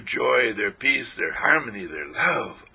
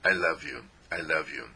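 tender self-talk; 6 semitones lower than usual. Shown as a demonstration. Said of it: "touch ourselves and say".

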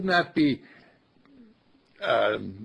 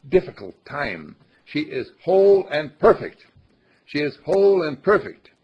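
louder, higher, insistent declaration; with conviction; 3 semitones higher, 7 dB louder than usual. Shown as a demonstration. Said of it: "Say it and know it".

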